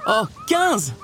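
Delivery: high, breathless tally of puppies; excited counting. A narrator's reading. Nani counting newborn puppies for Roger, excited.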